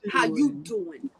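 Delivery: slow, lightly put-on greeting; catchphrase impression. Trying the corrected catchphrase, slow playful delivery. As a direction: draw out the cool-guy line.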